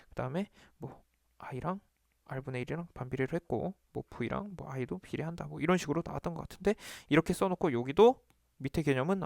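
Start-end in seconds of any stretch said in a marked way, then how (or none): 0.1-5.5 slow, very soft talking to oneself; murmured recall. Pretend. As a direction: murmur it half-whispered while thinking it through. Demo of recalling while writing alone.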